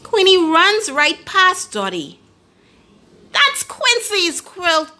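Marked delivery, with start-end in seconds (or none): 3.3-5.0 urgent duck. A narrator's reading. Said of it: "quacks Dotty".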